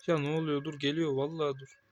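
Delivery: sudden loud panicked cry at the game; panicked yell. Real, not acted. Gamer yelling at an enemy closing in, panicked. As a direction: yell in alarm as the enemy rushes in.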